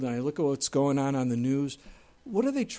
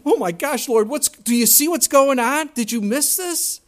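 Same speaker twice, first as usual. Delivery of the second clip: higher, louder frantic cry to God; mock panic; 8 semitones higher, 7 dB louder than usual. Preacher acting a believer panicking at God, hammed-up alarm. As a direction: fret at the Lord like everything's collapsing.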